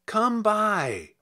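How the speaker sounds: a high, sing-song hawker's call; goblins calling. Acted. Goblins hobbling down the glen call to the maids, high sing-song call. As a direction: call out the wares like a goblin peddler. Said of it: "called the goblins".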